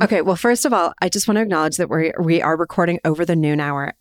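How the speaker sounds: talking between bites of salad; mouth full. Real, not acted. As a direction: speak while chewing food. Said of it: "Ask me if I'm eating a salad".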